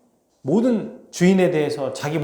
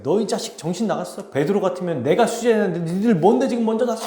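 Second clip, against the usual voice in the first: mock indignant scolding, pitched up; retold angry outburst; 3 semitones higher than usual. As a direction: act out a disciple blowing up at his friends. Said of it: "화를 터뜨려요".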